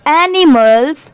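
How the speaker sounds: drawn out very slowly, word by word; slow spelled-out word. Shown as a demonstration. Teacher sounding out animals for students, very slow. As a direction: stretch it slowly for the class. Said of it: "अब जैसे यहाँ पर भी एस है तो पूरा क्या हो जाएगा?".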